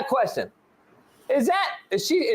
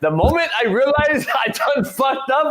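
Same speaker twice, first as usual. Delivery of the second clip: meme quote. Retold or imitated. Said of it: "You know that meme".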